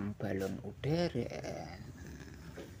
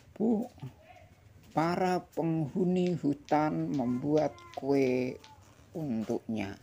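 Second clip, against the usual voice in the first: bright, higher character voice; child character voice; 6 semitones higher, 5 dB louder, slower than usual. Acted. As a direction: read the giraffe's line lightly. Character quote in picture book.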